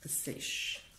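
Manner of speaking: dry, rough throat with a cough; husky and dried out. Real, not acted. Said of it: "J'ai la gorge sèche".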